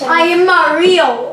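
slow, mock-Italian self-introduction; Mario accent. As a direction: announce yourself in a cartoon Mario accent. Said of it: "talking in your Mario accent".

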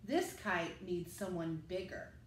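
a hint of a big grown-up explaining; dad's voice. Firemen explain.

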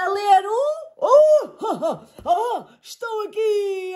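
high boisterous rhino. A narrator's reading. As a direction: bellow cheerfully like a rhino. Rhino character voice.

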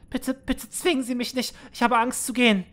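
put-on high, trembling plea of a scared teenage girl; frightened girl pleading. Scared girl begging her manager to let her stay, high and pleading.

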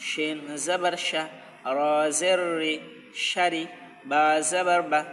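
rhythmic spelling, then the joined word said with a lift; spelling drill. Shown as a demonstration. Teacher spelling words for students, then saying the joined word. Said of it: "সেই শব্দগুলো তোমরা এইভাবে বানান করবে".

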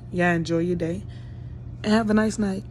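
sleepy, just out of bed; groggy morning voice; just woke up. Real, not acted. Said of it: "because I just woke up".

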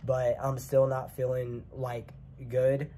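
congested, unwell voice; sick voice. Real, not acted. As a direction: talk like you have a cold. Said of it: "I'm not feeling too great".

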